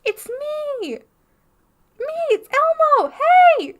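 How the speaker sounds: high, loud, shrieking call; desperate fan calling to Elmo; excited fan. Retold or imitated. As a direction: scream for Elmo's attention. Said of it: "and I'm like".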